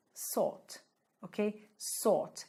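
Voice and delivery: "sought" begun with a plain hissed S; S sound. Shown as a demonstration. Teacher showing students the sound difference, "sought" with an S. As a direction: say "sought" with a clear S at the front. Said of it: "é um S".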